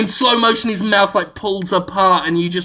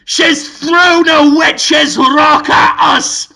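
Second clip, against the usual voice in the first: slow, high, loud mock panic; drawn-out wailing movie-hero alarm; Brendan Fraser; 8 semitones higher, 5 dB louder, much slower than usual. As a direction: cry out in hammed-up horror. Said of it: "Brendan Fraser says".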